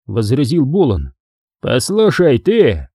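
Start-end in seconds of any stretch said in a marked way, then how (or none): 1.6-2.9 higher angry bark. Acted. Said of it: "рявкнул охранник".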